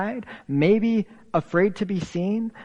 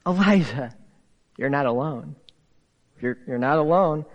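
a touch of tender reassurance; gentle grace; 4 semitones lower, faster than usual. Retold or imitated. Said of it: "come seasoned with grace".

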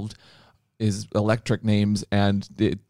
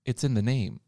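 realizing commenter. Retold or imitated. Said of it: "They'll be like".

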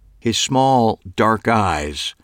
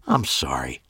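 polite; 7 semitones lower, 5 dB quieter than usual. A narrator's reading. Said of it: "making my voice sound as polite as possible".

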